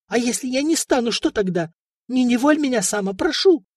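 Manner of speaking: high, desperate tearful begging; tearful pleading. Acted. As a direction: beg him, close to tears. Princess pleading near tears.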